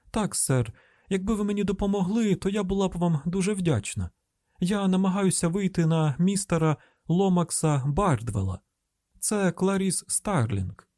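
put-on high, deferential country-girl lilt; rising intonation. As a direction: let the pitch creep upward as you ask. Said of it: "Її інтонація поповзла вгору".

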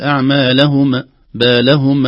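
أعمالهم with a bouncing, popping final ميم; wrong qalqala. Shown as a demonstration. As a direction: let the ميم of بالهم bounce. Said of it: "لا نقلقل".

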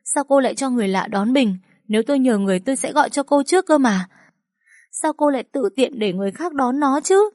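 high, loud, fast panicked scolding; a frantic mother shouting at the teacher; anxious loud outburst. A narrator's reading. Mother scolds the teacher who lost her son, loud and frantic. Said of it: "lo lắng đến mức nói rất lớn".

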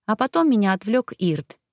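usual speaking voice

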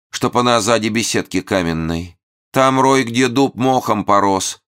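high chanting prophecy; prophetic holy fool. Acted.

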